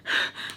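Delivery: soft, heavy sigh; deflated sigh. Shown as a demonstration. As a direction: let out a small defeated sigh. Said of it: "like that".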